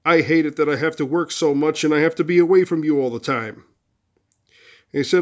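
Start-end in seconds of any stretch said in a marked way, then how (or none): 0.0-3.6 mild, half-hearted yell of frustration; mock yell back. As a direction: act out yelling back, only slightly raised. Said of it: "I want you to yell back and say".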